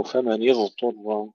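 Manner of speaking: فمن اضطر with ض turned into ظ; dad said as zha. Shown as a demonstration. Teacher imitates a common mistake, ض as ظ. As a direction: show the wrong ظ sound. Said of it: "يجعلونها ظاء كمان خطأ".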